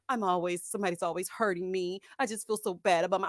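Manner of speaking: low retold poor-me complaint; self-pitying man. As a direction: imitate him feeling sorry for himself. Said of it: "And he's still like".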